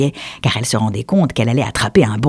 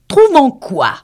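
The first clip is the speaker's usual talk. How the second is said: puzzled duck; 13 semitones higher, 6 dB louder, slower than usual. Acted. Duck asks the mouse.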